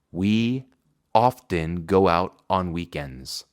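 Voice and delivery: often go out said slowly; slow model. Shown as a demonstration. Teacher reads the example slowly. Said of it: "Frecuentemente salimos".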